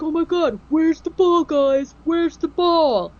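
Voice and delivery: high frantic call for the ball; mock panic. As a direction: ham up a panicked ghost hunter searching. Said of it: "Aaron goes down there and is like".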